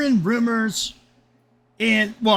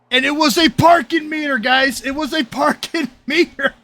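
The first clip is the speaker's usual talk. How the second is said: incredulous reveal; 6 semitones higher than usual. Real, not acted. Disbelieving reveal.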